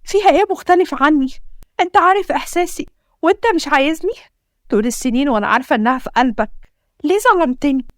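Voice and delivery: tearful outburst. Acted. Wife's tearful outburst at husband.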